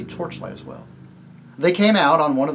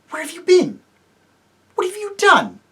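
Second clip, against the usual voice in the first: higher, louder urgent demand; startled demand; 8 dB louder than usual. Acted. King demands answers of Jill, startled and louder.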